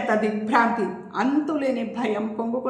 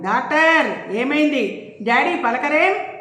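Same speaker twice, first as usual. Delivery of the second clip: slow, higher and anxious; worried asking; 4 semitones higher, slower than usual. Acted. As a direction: beg the doctor for an answer. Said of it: "ప్రీతి కంగారుగా అడిగింది".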